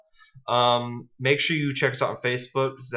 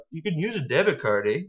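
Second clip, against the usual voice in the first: put-on Canadian accent; 3 semitones higher than usual. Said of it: "I don't know if my Canadian accent's".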